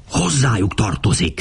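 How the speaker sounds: lightly hissed accusation, voice kept down; mild hiss. A narrator's reading. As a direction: hiss it with a touch of venom. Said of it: "sziszegte Démétriosz". (enyhén sziszegve)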